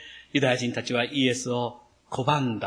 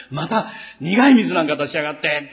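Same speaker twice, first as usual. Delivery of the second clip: mock grumbling curse; 4 dB louder than usual. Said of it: "と言って".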